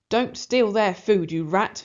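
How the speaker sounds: put-on cross old lady yelling. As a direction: shoo the rat away sharply. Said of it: "she yells".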